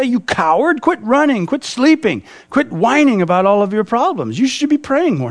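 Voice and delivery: hammed-up harsh scolding; drill sergeant. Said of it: "He's not a drill sergeant".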